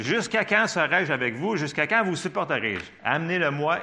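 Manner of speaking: displeased Jesus. Acted. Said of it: "Il était pas content".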